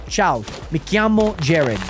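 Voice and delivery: slow "Ciao, mi chiamo Jared", hard K in "chiamo"; Italian phrase demo. Shown as a demonstration. Streamer practising for Italy, slow "chiamo" with hard K. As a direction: say "chiamo" as kee-AH-mo, unhurried. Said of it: "I can just say".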